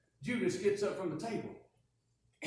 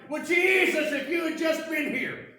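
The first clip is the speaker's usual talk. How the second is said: grieving reproach; 7 semitones higher, 6 dB louder than usual. Acted. Grieving sister confronts Jesus.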